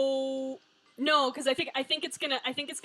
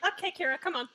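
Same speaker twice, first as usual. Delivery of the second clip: imitating Maxwell; 7 semitones higher, faster than usual. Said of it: "Maxwell's just like".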